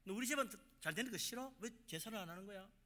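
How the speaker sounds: acted high-pitched indignation; accusing relative. Relative to one who skips the ancestral rite, indignant accusation. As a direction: accuse them, starting high then easing off.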